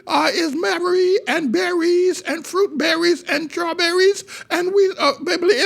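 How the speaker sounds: high, squeezed nose, mock-educated delivery; pinched-nose voice. Preacher mocking an educated man's speech, pinched-nose voice. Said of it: "he talks with a pinched nose".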